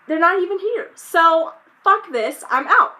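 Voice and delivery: exasperated, half-shouted exit line; fed-up outburst. Retold or imitated. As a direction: snap it out like you're walking away for good. Angry retelling of being stood up.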